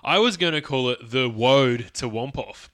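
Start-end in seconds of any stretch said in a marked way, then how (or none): 1.3-2.7 Woad with the R said as a W; Jonathan Ross impression. Host imitating Jonathan Ross saying Woad with a W. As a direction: say Woad, turning the R into W. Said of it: "that's how he would say it".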